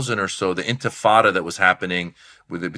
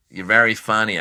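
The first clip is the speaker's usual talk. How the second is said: lightly imitating the club owner; Mitzi. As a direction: give a hint of her way of talking. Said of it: "that's how she talks".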